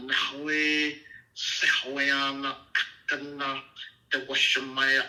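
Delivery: slow, drawn-out liturgical recitation; Aramaic prayer recital. Shown as a demonstration. Teacher reciting the prayer in Aramaic to his host, slow and solemn. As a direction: intone each Aramaic word slowly like a prayer. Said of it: "first in the Aramaic".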